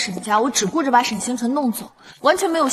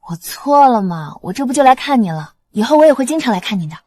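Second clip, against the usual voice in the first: louder, playful pleading to be forgiven; coaxing apology; 3 semitones higher, 5 dB louder than usual. Acted. Granddaughter placating her neglected grandfather, coaxing apology. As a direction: sweet-talk a sulking elder.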